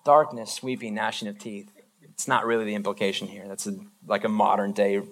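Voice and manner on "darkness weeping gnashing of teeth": a burst on darkness, then dropping to a hushed horror; stunned crowd repeating the threat in mock horror; horrified listener. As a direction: spell out each dread word, appalled. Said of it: "And everybody listening goes".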